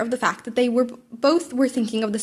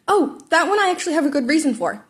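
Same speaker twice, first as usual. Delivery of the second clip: excited; 6 semitones higher than usual. Acted. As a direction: perk up with enthusiasm. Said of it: "Midoriya said excitedly".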